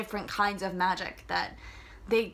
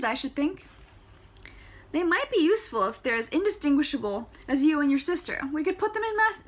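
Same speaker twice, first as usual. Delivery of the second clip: higher, louder voiced characters; character dialogue; 6 semitones higher, 4 dB louder than usual. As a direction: play the banter with lifted voices. Chandresh and Tara dialogue.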